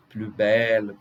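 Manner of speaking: "plus" as "plu" before belle; no S heard in "plus"; silent S. Shown as a demonstration. Teacher recapping consonant rule, "plus belle" with silent S. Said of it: "a gente não pronuncia o S".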